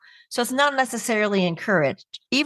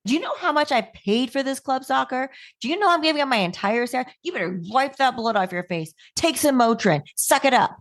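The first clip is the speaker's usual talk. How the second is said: higher, half-shouted drill-sergeant mom; hammed-up screaming soccer mom, pitched higher; mock sideline yelling; 6 semitones higher than usual. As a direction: bark at the kid like a boot-camp sergeant on the sidelines. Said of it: "I'm screaming at my daughter".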